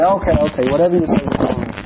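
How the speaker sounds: mildly exasperated, dismissive agreement; humouring a fool. Acted. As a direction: give in just to end the argument. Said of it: "just completely unreasonable and stupid".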